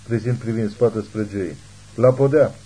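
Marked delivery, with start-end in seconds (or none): 2.0-2.5 loud, urgent call of La podea; shouted order. Acted. Christine shouts to Joey to duck, loud. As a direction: yell it to get him down. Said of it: "îi strigă ea".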